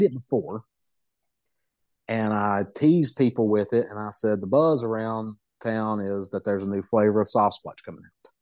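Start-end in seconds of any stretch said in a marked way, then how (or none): 4.4-8.3 "buzz" pushed out and held a little longer than the rest; stress on buzz. Retold or imitated. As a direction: lean on the word "buzz" as a hint. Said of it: "I emphasized the word buzz".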